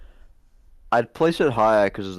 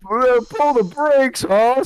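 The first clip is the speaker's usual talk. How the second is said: cowboy voice; 6 dB louder, slower than usual. Pretend. Mock cowboy reaction.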